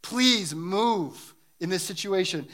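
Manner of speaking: acted begging to God with weighty words; understated crying out to God; pleading prayer. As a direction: plead earnestly, stretching out the key words. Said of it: "When we cry out to God".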